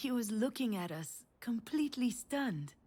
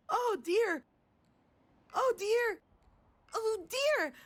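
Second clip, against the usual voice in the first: put-on much higher and louder, a child's repeated cry; child screaming; 12 semitones higher, 5 dB louder, slower than usual. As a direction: mimic a little girl shrieking over and over.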